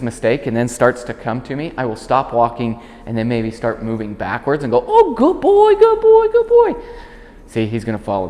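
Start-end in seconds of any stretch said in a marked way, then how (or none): 4.9-6.7 animated praise. Real, not acted. Trainer backs away and excitedly praises the hesitating dog. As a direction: cheer him on as you back away. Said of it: "I'm gonna be really animated".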